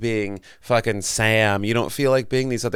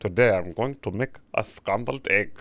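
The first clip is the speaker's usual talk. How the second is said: idiotic, thick-headed character voice with German accent; 4 dB quieter than usual. Showing the character he and his roommate did at home, Jurgen's idiotic German voice. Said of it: "he was like this this like German idiotic like".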